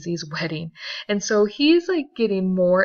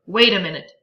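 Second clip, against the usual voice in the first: louder sharp cut-in; snapped; 7 dB louder, faster than usual. Acted. Tom cuts off Daisy, louder sharp snap. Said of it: "snapped Tom".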